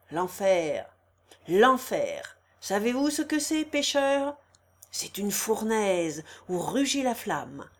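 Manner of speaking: forceful fire-and-brimstone sermon; menacing, swelling the words; preaching. Acted. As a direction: declaim it like an old priest threatening sinners. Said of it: "d'une voix forte, s'animant comme s'il eût prêché".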